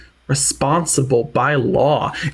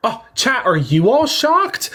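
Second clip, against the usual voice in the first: sarcastic shock; much slower than usual. Pretend.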